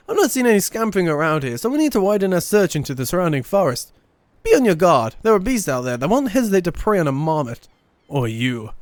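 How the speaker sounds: lightly theatrical game-character voice; Erenville character read. Acted. Collector accepting help finding marmots, lightly formal read. Reads Erenville's dialogue aloud.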